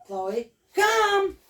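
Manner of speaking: high, loud shouted call. Shown as a demonstration. Trainer showing a loud recall to her dog, high shout. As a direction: call the dog sharply across the room. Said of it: "use different voices".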